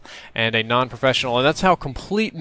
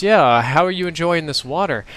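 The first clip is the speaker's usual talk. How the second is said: repeating louder; 4 semitones higher than usual. Retold or imitated. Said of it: "Say that again?".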